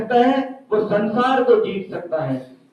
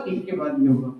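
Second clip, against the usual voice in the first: इसके बाद ये होगा said again much lower and softer; soft repeat; 9 semitones lower, 5 dB quieter than usual. Shown as a demonstration. Teacher echoing इसके बाद ये होगा to the children, low and soft.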